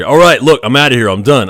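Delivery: patient bailing out, loud and annoyed; mock angry quitting; fed-up outburst. Patient storms off table.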